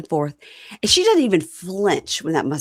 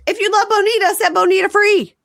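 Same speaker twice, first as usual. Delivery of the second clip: mock dramatic declaration; 14 semitones higher, 6 dB louder than usual. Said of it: "And then she goes".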